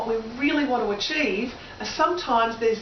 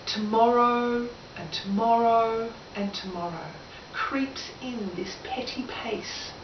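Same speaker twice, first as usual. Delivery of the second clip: slow, grieving Shakespeare recital, fading softer; Macbeth reciting; 3 dB quieter than usual. Acted. Former drama teacher quoting Macbeth, grieving and slow. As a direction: recite Macbeth's grief, drawn out. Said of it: "And he says".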